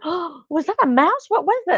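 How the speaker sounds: high-pitched mock alarm with a gasp; startled. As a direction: act out a jumpy little fright. Retold fright at flying hairball.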